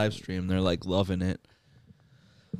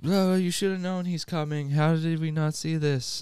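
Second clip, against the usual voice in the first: higher-pitched, mildly irritated imitation; mock pissy; 6 semitones higher than usual. Imitating the boss scolding his henchmen, mildly pissy. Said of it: "And he's all pissy".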